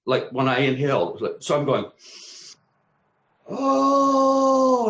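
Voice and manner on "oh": long high moan of relief; moaning with bliss; pleasured moan. Retold or imitated. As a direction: let out a loud, drawn-out "oh". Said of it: "and I'm moaning".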